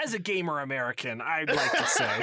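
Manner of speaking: a hint of a stump speech; lightly voiced campaign speech; politician voice. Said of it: "You sound like you're going for office".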